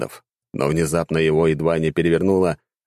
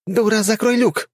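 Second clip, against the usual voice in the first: squeaky high cry from inside the tank; high shouted voice. A narrator's reading. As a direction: yell up at her, pitched way up. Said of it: "раздался крик снизу".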